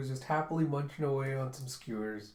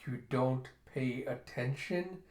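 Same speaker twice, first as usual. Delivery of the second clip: slow, mildly offended question; affronted; slower than usual. Acted. Jeha answering Zeno's indifference, mildly affronted. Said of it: "all affronted".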